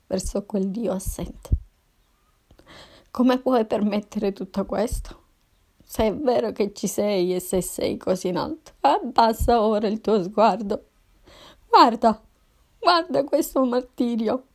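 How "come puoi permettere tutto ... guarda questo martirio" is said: loud, anguished cry, building to a scream on guarda; furious shout at God. Acted. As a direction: hurl contempt at an absent God. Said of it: "urlai tutto il mio disprezzo". (urlo furioso e disperato rivolto a Dio)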